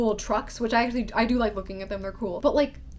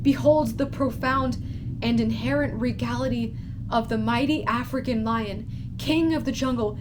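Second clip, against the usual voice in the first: nature documentary. Retold or imitated. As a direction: announce it like a solemn wildlife film. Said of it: "and it's like".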